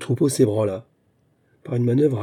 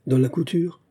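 lightly mocking question pitched higher; ironic; 5 semitones higher than usual. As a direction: tease her with the question. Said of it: "demanda-t-il ironiquement".

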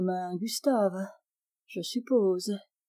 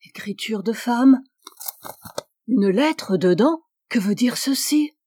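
very agitated; 3 semitones higher, 4 dB louder than usual. Acted. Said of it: "très agité".

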